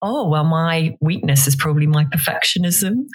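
ordinary delivery

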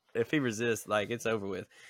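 plain

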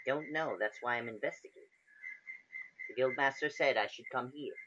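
high female cat-creature character voice. Player voicing a tabaxi character being questioned, in a tabaxi character voice. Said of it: "you can tell that this particular creature is a tabaxi. Female at that".

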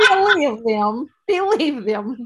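put-on terrible, loud slip into a Russian accent. Quoting a saying, the speaker's delivery slips into an accidentally Russian-sounding accent. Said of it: "I keep saying it Russian".

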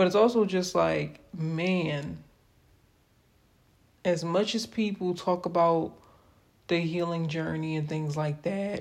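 voice breaking up, cracking, "man" drawn out. Opening up about feeling tired, voice cracking. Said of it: "voice is cracking".

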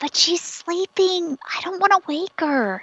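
hushed whisper. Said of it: "you don't have to whisper".

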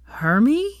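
feeble, limp voice. Neville responds to Draco, who has just claimed Hermione's promise: weakly. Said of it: "said Neville weakly".

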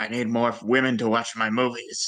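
put-on smoker's voice. Joking about a movie's casting, doing a John Carpenter impression. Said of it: "my John Carpenter sounds a lot like my Vince McMahon".

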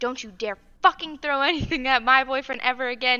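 put-on furious voice. Recounting confronting a girl who threw her hockey stick at the boyfriend, retelling yelling. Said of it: "I started yelling at her".

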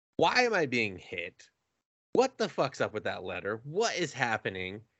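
dazed, stunned and bewildered. Retelling a scene where the new girl is being hit: imitating stunned confusion.

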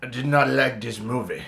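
loud, high-pitched put-on French accent. Asked to imitate a French man at Cannes disliking a movie, a French man impression. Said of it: "you do a great impression of a french man".

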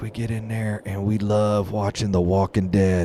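imitated whisper. Retelling what a church lady told him, imitating a whisper. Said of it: "she starts whispering to me".

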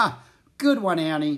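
strained laughing along. Narrator reads Jack trying to laugh along with the men: forced laugh. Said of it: "Jack tried to laugh with them".

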